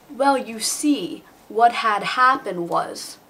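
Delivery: slow, drawn-out stalling "Well, you see, what had happened was"; stalling excuse. Acted. Kid stalling dad over missing pie, slow drawn-out excuse. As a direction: stretch it out to buy time.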